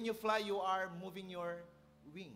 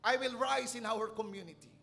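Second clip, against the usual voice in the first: growing louder each line; building declaration; 3 semitones higher, 9 dB louder than usual. Acted. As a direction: build the vow into a proclamation.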